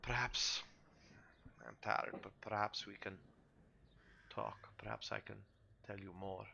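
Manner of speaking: understated, tired in-character voice; lightly voiced Esmark, weary. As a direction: trail into a soft, halting reply.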